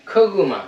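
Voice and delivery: খগুমা said as one smooth word; syllables joined. Shown as a demonstration. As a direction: join খো গু মা into খগুমা. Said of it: "খো, গু, মা".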